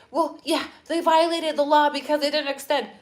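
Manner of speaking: mock opponent voice. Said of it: "Then they're gonna say".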